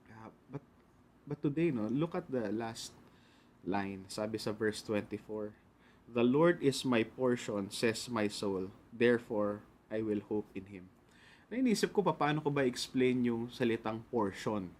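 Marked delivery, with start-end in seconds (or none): 6.1-10.9 Scripture reading. Acted. Reads the verse out. (dahan-dahang pagbasa ng talata)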